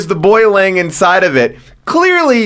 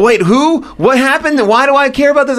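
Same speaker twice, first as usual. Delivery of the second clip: baffled viewer; 6 semitones higher than usual. Retold or imitated. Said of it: "and you're like".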